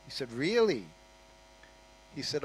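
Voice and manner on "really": surprised. Retold or imitated. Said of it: "with surprise".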